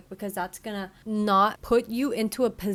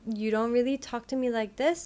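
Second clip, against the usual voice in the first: clear example. Shown as a demonstration. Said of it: "Number one, clear".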